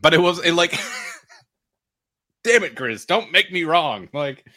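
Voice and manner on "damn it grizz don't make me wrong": half-laughing exasperation; laughing frustration. Real, not acted.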